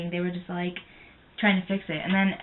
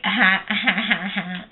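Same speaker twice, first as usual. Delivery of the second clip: mock laughter; 3 dB louder, much slower than usual. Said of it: "They were just all like".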